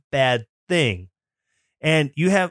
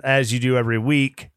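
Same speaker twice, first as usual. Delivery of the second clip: ordinary delivery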